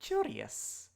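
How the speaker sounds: hissing whisper, rising to curious; intrigued serpent creature voice; snake voice. Acted.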